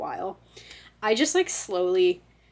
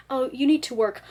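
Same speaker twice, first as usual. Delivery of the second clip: mild nagging reminder, pitched up; higher-pitched, lightly insistent self-talk; nagging inner voice; 5 semitones higher, 3 dB louder than usual. Acted. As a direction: play a first gentle prod from your conscience. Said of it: "the thoughts would get more, like, closer together".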